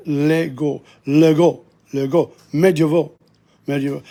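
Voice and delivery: clearly sounded "é" in "légaux" and "médiévaux"; teacher's demo of the first-syllable accent in "légaux". Shown as a demonstration. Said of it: "the accent is on that first".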